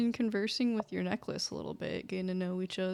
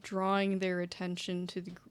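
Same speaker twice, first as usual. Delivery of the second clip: stern father. Acted. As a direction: lecture firmly, rising to insistence. GM voices father figure.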